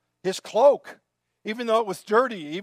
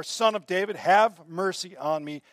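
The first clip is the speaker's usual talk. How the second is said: loud, raised plea for mercy; crying out; 6 dB louder than usual. Retold or imitated. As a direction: call out urgently over a crowd. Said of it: "cried out all the more".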